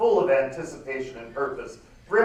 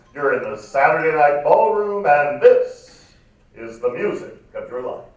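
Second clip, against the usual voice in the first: lightly voiced smooth radio announcer; sexy radio host; 6 dB louder than usual. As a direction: croon it like a late-night DJ. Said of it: "A man's sexy baritone voice says".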